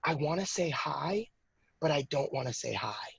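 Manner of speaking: hushed, hesitant son; shy little boy. Retold or imitated. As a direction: say it the way a shy toddler confides. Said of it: "he says".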